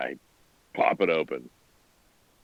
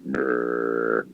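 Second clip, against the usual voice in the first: low, drawn-out imitation of ominous music; deep grim rumble; 6 semitones lower, 3 dB quieter than usual. Player describing the ominous music he'll blast, deep rumbling brrr. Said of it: "deep, deep stuff".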